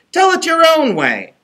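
very high impish voice; sly little imp advising; Rumpelstiltskin voice. A narrator's reading. Rumpelstiltskin continues.

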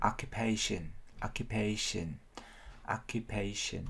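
OCCUPATION with main stress on the PA syllable; stress on PAY. Shown as a demonstration. Teacher drilling the main stress, "pay" syllable emphasised in OCCUPATION. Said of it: "âm chính nhấn vào âm pay".

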